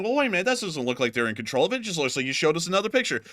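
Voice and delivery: quick, mildly mocking objection; lightly voiced skeptical heckler; objecting viewers, mimicked. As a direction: rattle it off as a doubting viewer. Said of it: "some of y'all are going".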